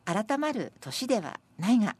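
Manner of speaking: measured, slightly projected verse reading; senryu recitation. Acted. Presenter reading senryu about age and New Year, measured recitation. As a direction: recite the verse with deliberate phrasing.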